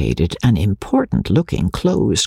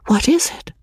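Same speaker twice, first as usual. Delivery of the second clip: breathless whisper; 13 semitones higher than usual. Acted. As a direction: whisper it anxiously in the crowd. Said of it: "whispered Magnolia".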